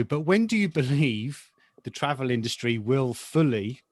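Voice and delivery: "fully" leaned on with extra weight and length; the host puts emphasis on "fully" in the poll question; stress on fully. Real, not acted. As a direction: hit the word "fully" so it lands firmly. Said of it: "emphasis on the word fully".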